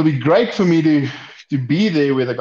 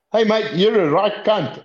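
higher, put-on mate voice; lightly voiced Aussie mate, pitched up; Jackson's greeting; 8 semitones higher than usual. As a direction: toss the insult out as a friendly greeting. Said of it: "he went".

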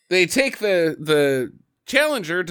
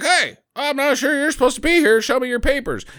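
high mock guard voice; a mock security guard calling out, pitched up; 9 semitones higher than usual. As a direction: play the officious guard. Security guard confronting car thief.

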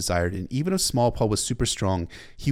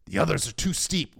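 higher, urgent reply; raised battle voice; 7 semitones higher than usual. A narrator's reading. Mormont answering his officer amid battle, raised voice. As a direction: pitch it up over the din.

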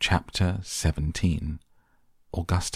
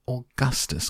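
mock cry; 7 semitones higher than usual. A narrator's reading. Father calling his son, high restrained cry. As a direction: call higher without real volume. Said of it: "cried Mister Gloop".

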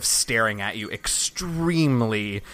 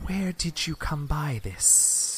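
guard voice; 4 semitones higher, 6 dB quieter, much slower than usual. Acted. Guard leader questioning the party.

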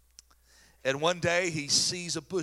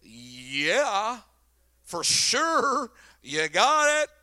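nod along to the voice from the bush, eagerly; eager yes-man; 5 dB louder, much slower than usual. Pretend. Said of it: "I'd have been like".

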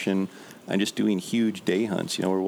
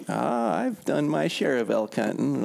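put-on slow, boastful old drunk, pitched up; drunk bum voice; 4 semitones higher, slower than usual. Drunk bum boasts to young hunters, mock-slow. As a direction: brag like a barfly who's seen it all. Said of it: "And we said".

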